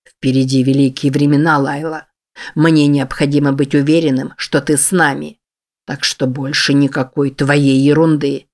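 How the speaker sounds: low, heavy male voice with a sigh behind it; grim low man's voice. Acted. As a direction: speak low, as a weary, menacing boss. Gilder's calm menacing speech.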